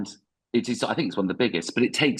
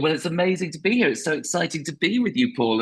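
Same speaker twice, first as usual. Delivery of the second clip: higher, over-excited mock gush; gushing American guest; 6 semitones higher than usual. Podcast guest thanking the American host, higher hammed-up gush. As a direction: lay on the fake enthusiasm, American style. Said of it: "And they'd be going".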